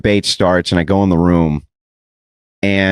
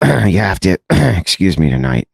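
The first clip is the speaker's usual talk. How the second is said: worst sucking voice; 3 semitones lower than usual. Retold or imitated. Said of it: "the worst sucking voice you've ever heard".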